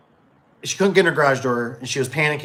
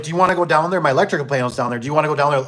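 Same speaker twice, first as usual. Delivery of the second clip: higher, louder pushy offer; insistent lady; 4 semitones higher, 5 dB louder, faster than usual. Retold or imitated. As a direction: lightly play the customer urging him down. Lady invites him to basement.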